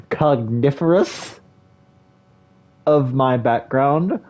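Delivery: slow, puzzled questioning voice; odd drawn-out questioning. Acted. Streamer catching himself voicing a character, slow odd questioning. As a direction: stretch each word like a haughty query. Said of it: "Why am I speaking like that?".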